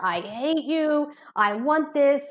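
stretched, mildly whiny retelling of a tantrum; mock child's scream. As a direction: imitate a screaming kid without actually yelling. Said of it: "she starts screaming in the store".

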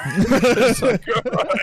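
laughing through the words; high laugh while talking. Real, not acted. Laughing at own joke.

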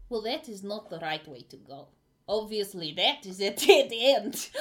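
bad German accent. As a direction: put on a clumsy German accent. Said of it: "the German is disgusting".

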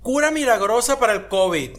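hammed-up miracle-cure pitch; mock miracle announcement. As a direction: proclaim it like a bogus forwarded message. Mocking forwarded WhatsApp remedy messages.

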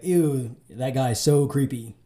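lightly voiced Valley Girl, slow; a hint of a Valley Girl sneer. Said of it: "in, like, a Valley Girl voice".

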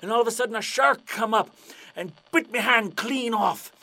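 loud arr, then a dramatic sea yarn; hammed-up pirate storyteller. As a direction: tell it as an old sea dog, building to the climax. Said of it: "And the pirate's like".

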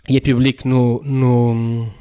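losing the voice mid-sentence; voice giving out. Real, not acted. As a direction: voice cracking and failing. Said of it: "ui, perdi a voz agora".

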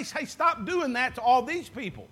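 light, offhand "stop doing that to all these people"; casual general rebuke. Shown as a demonstration. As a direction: toss it off as a general complaint, nothing personal. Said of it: "he didn't say".

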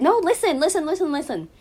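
high, loud, repeated listen fading off; insistent protest. Real, not acted. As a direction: cut in and demand they hear you out. Insists on being heard, defensive.

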